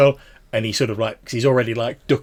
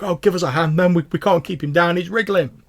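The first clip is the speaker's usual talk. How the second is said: straining guard; 8 semitones higher, 5 dB louder than usual. Acted. Guard straining to hold man.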